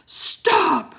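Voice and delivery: a sharp, loud high Stop; shout. Acted. Wizard commanding the fleeing children, shouting. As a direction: bark it to halt them. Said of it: "shouted the wizard".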